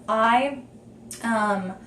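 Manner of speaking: catching breath mid-sentence; short of breath between words. Real, not acted. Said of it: "sorry, breathing".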